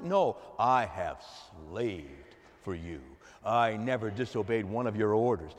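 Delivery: resentful son to his father, grumbling; sullen complaint. Acted. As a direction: mutter the grievance under your breath. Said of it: "does that sound like".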